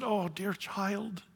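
mother donkey softly consoling her son; tender mother. Acted. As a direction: soothe a hurt child gently.

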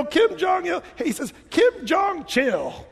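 high, very slow, loud drawn-out pun; mock punchline. Pastor imitating the driver's last words on the video. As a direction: stretch the pun out big.

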